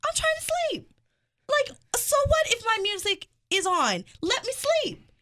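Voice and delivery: high exasperated mock complaint; annoyed woken passenger. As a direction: whine at the flight crew who woke you. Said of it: "I'm like".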